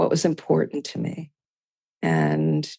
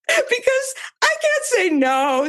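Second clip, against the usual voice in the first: high self-mocking; slower than usual. Real, not acted.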